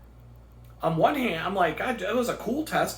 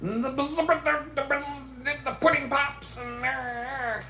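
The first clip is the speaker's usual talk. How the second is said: pudding ad voice; 9 semitones higher, much slower than usual. Pretend. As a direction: croon it like a dreamy commercial. Pudding ad mimic continues.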